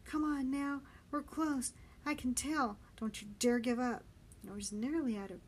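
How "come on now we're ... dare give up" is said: higher, raised rallying voice; insistent encouragement; urging on. Acted. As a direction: urge an exhausted friend not to give up. Benny urging exhausted friend on.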